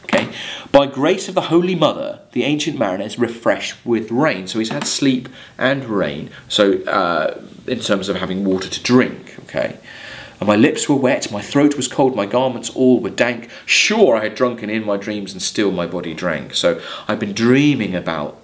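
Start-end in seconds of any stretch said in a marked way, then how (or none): 0.7-4.4 measured verse reading to the class; poem reading. Acted. Teacher reading Coleridge verse to students, measured poem reading. 10.4-16.6 measured verse reading to the class; poem reading. Acted. Teacher reading Coleridge verse to students, measured poem reading.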